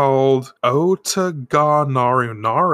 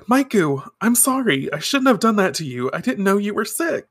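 high-voiced, pleading mock apology; acted apology; 8 semitones higher than usual. Minako apologising to sick Maiku, high acted regret. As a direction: play an apologetic girl, pitched up.

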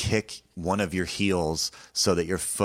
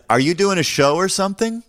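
high, loud question hollered across a street; calling out; 13 semitones higher, 5 dB louder than usual. Retold or imitated. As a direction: imitate a stranger calling over casually. Chef calls across the street.

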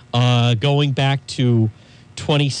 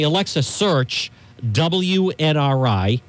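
spoken command; slower than usual. Shown as a demonstration.

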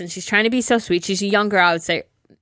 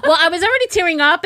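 laughing; 8 semitones higher, faster than usual. Real, not acted. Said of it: "you're crying and laughing".

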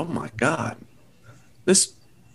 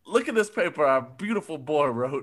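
emotional shout. Acted.

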